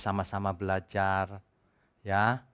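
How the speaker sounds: ordinary talk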